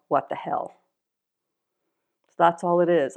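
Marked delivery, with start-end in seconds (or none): 0.1-0.7 low, half-voiced mutter; offhand aside to oneself. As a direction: mutter it privately, like an inward shrug. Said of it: "inside I mutter to myself".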